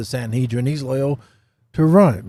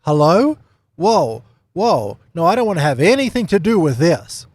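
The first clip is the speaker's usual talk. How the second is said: high, louder acted panic; freaking out; 4 semitones higher, 4 dB louder than usual. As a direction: back away from it in mock alarm. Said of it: "starts freaking out and going".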